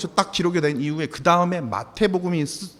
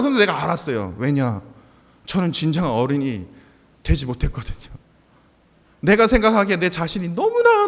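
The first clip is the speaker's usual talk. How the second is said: ordinary talk, nothing marked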